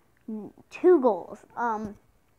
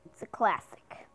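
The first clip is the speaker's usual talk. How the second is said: whisper; 3 semitones lower, 4 dB quieter than usual. Real, not acted. Whispered aside.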